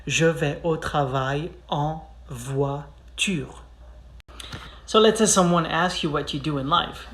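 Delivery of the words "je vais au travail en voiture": slow and careful; slow clear drill; slow repeat. Shown as a demonstration. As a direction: model it slowly once more. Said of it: "One more time".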